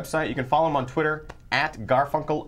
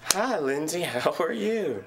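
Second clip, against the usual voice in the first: put-on a gentle kids' TV host voice, higher; Mister Rogers; 5 semitones higher than usual. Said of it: "in the voice of Mister Rogers".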